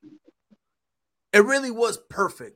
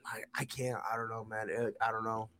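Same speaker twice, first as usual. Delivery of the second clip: hushed, unvoiced "I can't"; whispered disbelief; 10 semitones lower, 13 dB quieter than usual. Real, not acted. To Mike, a hushed whispered refusal. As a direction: breathe it out in dismay.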